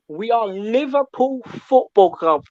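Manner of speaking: a light Jamaican patois lilt; lightly put-on Jamaican accent, proud. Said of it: "You're getting that Jamaican accent out of me".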